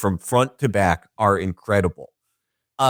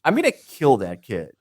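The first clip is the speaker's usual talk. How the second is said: scolding God; 5 semitones higher than usual. Retold or imitated. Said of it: "And God's like".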